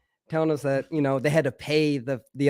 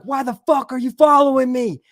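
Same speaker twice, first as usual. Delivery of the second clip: loud, high indignant demand; angry confrontation; 8 semitones higher, 6 dB louder than usual. Retold or imitated. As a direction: yell it at whoever is tailing you. Confronts pursuers in retold standoff.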